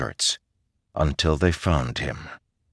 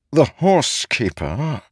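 high-pitched, incredulous query; skeptical; 10 semitones higher than usual. A narrator's reading. Ishar doubting the choice of horsekeeper, skeptical. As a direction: question it with open doubt, pitch well up.

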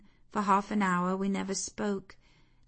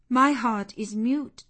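repeated louder with a rising end; struck and thrilled; 4 semitones higher, 6 dB louder than usual. A narrator's reading. Jane answering St. John, stunned and shaken. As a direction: echo the words, shaken and rising. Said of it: "struck and thrilled".

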